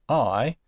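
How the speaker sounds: "I" as the vowel in height; alternative diphthong sound. Shown as a demonstration. Teacher showing what some prefer, sound demonstration. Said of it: "as in height".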